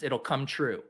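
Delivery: ordinary delivery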